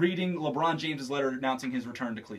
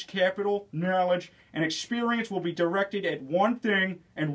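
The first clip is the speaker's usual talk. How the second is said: Peter Griffin impression. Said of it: "Peter Griffin".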